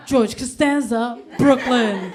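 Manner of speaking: slow, badly faked New York accent; half-hearted, slow New York accent. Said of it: "try to do a New York accent".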